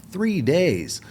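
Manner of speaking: shocked repeat of bad news; incredulous. Himself, stunned by the bus station, disbelieving cry. Told bus is three days.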